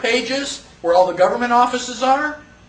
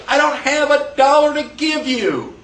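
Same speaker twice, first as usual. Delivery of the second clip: mock broke buyer; 4 semitones higher than usual. Buyer in acted exchange.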